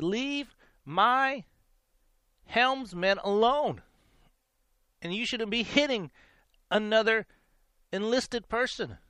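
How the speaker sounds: lightly voiced officer defending his helmsman; lieutenant's order. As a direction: hand down the order slowly, one word at a time.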